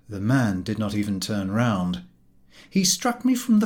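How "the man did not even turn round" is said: ordinary delivery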